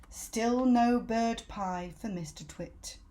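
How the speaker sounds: slow, deliberate title reading; chapter title. A narrator's reading. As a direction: announce the heading slowly. Chapter title read slowly.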